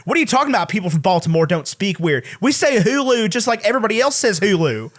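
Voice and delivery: mimicking a Baltimore woman's accent; indignant Baltimore accent impression; Baltimore accent, imitated. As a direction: protest in a put-on Baltimore accent. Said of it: "The Baltimore accent's crazy".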